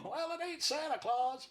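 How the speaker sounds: high, slow sardonic horse; high deadpan horse puppet. Acted. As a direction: drawl it like a dry old horse. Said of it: "his voice is really close to my normal voice".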